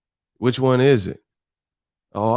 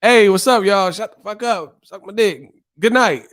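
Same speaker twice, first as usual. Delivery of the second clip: mock Eddie Murphy; 8 semitones higher, 3 dB louder than usual. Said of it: "I just come out and say".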